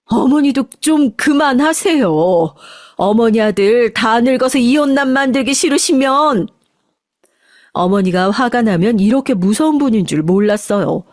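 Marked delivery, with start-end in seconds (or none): 0.1-6.5 firm, raised warning to the mother-in-law; angry outburst. Acted. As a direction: tell her to stop, once and for all. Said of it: "할머니에게 소리를 버럭 질렀습니다". (시어머니에게 버럭 소리치는 며느리)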